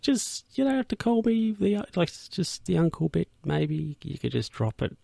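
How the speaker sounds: high, hesitant put-on plea; mock reluctance. Uncle asking nephews to drop the title, mock reluctant. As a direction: protest lightly in a high voice, easing down.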